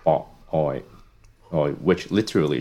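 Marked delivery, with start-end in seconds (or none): 0.0-0.8 "Bok Oi" said the Cantonese way, clipped "Bok" then open "Oi"; Cantonese pronunciation. Shown as a demonstration. Guest telling the host his family story, Cantonese pronunciation. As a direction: give "Bok Oi" its native Cantonese sounds. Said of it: "In Cantonese is".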